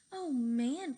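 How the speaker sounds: loud thrilled cry; cried out. A narrator's reading. Cheeseball amazed the plane flies, loud excited cry. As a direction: shout it in disbelief. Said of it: "cried Cheeseball".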